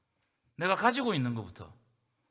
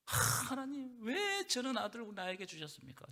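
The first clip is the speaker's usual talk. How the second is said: lament; 6 semitones higher, 5 dB quieter than usual. Retold or imitated. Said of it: "그 탄식 소리를 들었어요".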